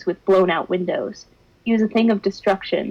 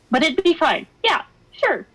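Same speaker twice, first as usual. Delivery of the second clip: sarcastic; 8 semitones higher than usual. Acted. Sarcastic self-reassurance.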